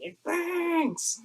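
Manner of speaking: a playful Lord of the Rings impression to make the class laugh; Smeagol impression. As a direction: play the tormented Gollum creature. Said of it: "Lord of the Rings, Smeagol".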